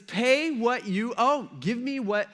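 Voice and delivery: high, drawn-out forceful demand; harsh demand. Acted. Servant choking his debtor, harsh demand. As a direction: demand repayment, stretching the opening words.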